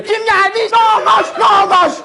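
high, loud shout from the balcony; nosy mother shouting. Retold or imitated. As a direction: yell down from the balcony like a nosy Ankara mom. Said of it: "diye böyle bağırırlar dışarı".

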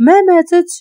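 sudden furious outburst; shout. Acted. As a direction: yell the denial at his friend. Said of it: "غوت عليه".

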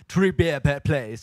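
lightly put-on Scottish accent, slow; slow pub order in a mild Scottish accent; mock Scottish accent. Ordering beer in an Irish pub in a mild Scottish accent. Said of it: "als wenn ich Schott wäre".

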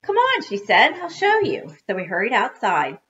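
lively read-aloud to children, with acted dialogue; story narration. A narrator's reading.

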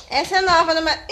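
chuckling through the words; laughing. Real, not acted. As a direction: say it while laughing. Laughing at the phone flash.

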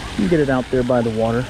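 ordinary talk

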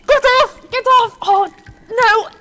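high, loud panicked shrieks; terrified screaming. Acted. Patricia fighting off an attacker, screaming in terror.

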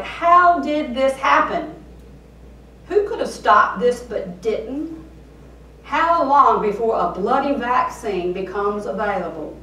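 angry questions. Retold or imitated. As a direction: fire the questions off in frustration. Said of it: "Your anger fuels questions like".

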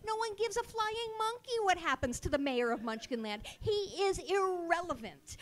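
worked-up, loud comic tirade; loud, exasperated outburst; indignant rant. Retold or imitated. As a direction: rant with punched, emphatic words. Acting out her childhood outrage.

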